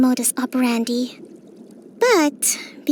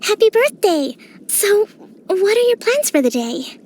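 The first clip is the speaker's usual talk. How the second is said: excited greeting; 6 semitones higher than usual. Acted. Greeting traveler on birthday.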